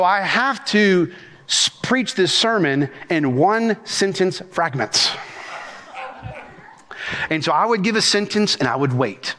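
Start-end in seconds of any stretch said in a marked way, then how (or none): 0.0-5.1 halting, broken into short chunks with pauses; slow, stop-start phrasing for an interpreter; deliberately slow fragments. Shown as a demonstration. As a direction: preach it slowly, piece by piece. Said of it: "I have a hard time talking slow".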